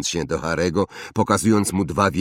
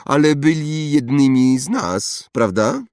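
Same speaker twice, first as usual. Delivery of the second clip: put-on higher, louder haughty boy voice; snobbish boy; 8 semitones higher, 6 dB louder than usual. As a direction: play a spoiled rich boy. Draco voiced. (wyższy głos zarozumiałego chłopca)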